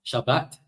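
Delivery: "Shabbat" with a single quick b; sha-BAT, short vowels, no held b in "Shabbat"; modern Israeli pronunciation. Shown as a demonstration. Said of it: "They no longer, uh, double the bit".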